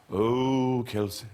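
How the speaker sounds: slow, drawn-out theatrical lament; languid, grand old theatre man; Ellis Rabb voice. Retold or imitated. Kelsey imitates his old boss, slow and theatrical. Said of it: "he would say things like this".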